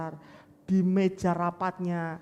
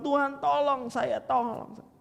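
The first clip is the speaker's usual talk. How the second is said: earnest plea; 7 semitones higher than usual. Acted. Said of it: "Dia sungguh-sungguh mohon kepada Tuhan".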